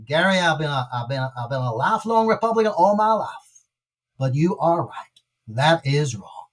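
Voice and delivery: weak imitation of a thick Georgia accent; attempted Georgia accent. Churchgoer confessing to his pastor, in a lightly mimicked Georgia accent. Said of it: "he said in a thick Georgia accent, which I attempt to mimic".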